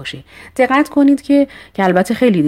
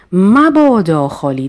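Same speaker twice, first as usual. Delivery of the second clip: مبادا drawn out slowly and raised; stress on مبادا; 3 semitones higher, 4 dB louder than usual. Shown as a demonstration. Teacher stressing مبادا for the class. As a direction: lean on مبادا, slow and a little louder.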